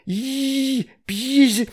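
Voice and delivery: put-on high babyish mumble; high little-girl babble; toddler mumbling. A narrator's reading. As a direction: mumble like a tiny girl trying a spell. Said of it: "бормотала она".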